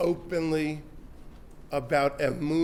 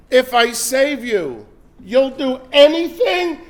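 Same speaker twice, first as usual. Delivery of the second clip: booming question; 6 semitones higher, 8 dB louder than usual. Acted. The heavenly voice challenges the desperate man, booming. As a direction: test him with a big voice.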